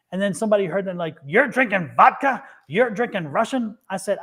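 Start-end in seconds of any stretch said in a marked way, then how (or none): 1.3-3.8 mock disbelief. Retells someone fussing about the vodka.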